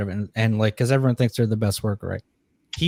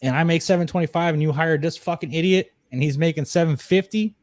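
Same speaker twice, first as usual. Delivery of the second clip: angry complaint; 6 semitones higher than usual. Retold or imitated. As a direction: let the outrage build as you plead your case. Complaining to GM about his pay.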